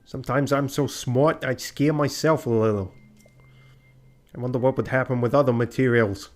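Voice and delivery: lightly hammed-up, cocky inventor voice; boastful arrow maker. Inventor showing off ideas to a customer, mildly put-on boastful voice.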